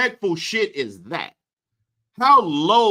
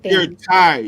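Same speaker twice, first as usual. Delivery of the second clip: mocking echo; 6 dB louder than usual. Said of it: "I'm tired".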